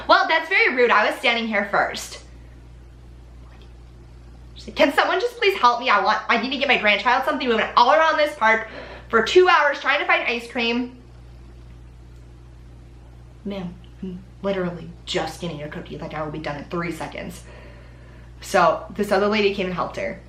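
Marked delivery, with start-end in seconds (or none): 0.1-11.0 a hint of an indignant customer, high at the start; mildly mock huffy complaining; rude customer. 13.4-17.4 muttered comeback. Real, not acted.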